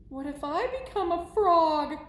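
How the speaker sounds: a touch of comic dread; worried. Acted. Gerald fearing he will become a frog, mildly worried.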